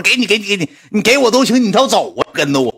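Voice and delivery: high, loud flustered pleading. Retold or imitated. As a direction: hand it over in a panic. 急着还充电宝. (慌张高声央求)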